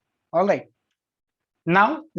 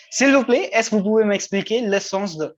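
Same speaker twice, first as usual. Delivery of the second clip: polite student request; 3 semitones higher than usual. Shown as a demonstration. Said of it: "This is the best option available to you".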